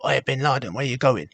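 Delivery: cheeky taunting shout at the imam; retold shout. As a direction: call out the window to provoke him. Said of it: "I shouted out my window".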